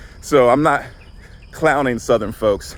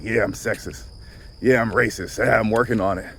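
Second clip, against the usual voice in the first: low, softer mock confession; reluctant admission; 3 semitones lower, 4 dB quieter than usual. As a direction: admit it as if it's hard to say. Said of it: "we find it really hard to be like".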